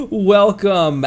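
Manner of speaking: high, loud raid hype; excited shout. Real, not acted. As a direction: cheer the raiders in.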